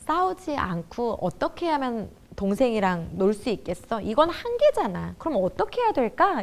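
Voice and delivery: patient textbook-parent voice; unhurried, composed parenting. Acted. Mother mediating her children's fight by the book, unhurried. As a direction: reason it out gently, at leisure. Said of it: "여유 있게 얘기해요".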